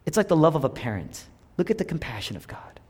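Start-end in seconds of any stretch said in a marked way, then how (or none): 1.6-2.8 whisper. Real, not acted. Whispered awe.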